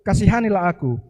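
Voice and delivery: loud begging cry. Acted. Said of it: "semakin keras ia berseru". (seruan lebih keras memohon)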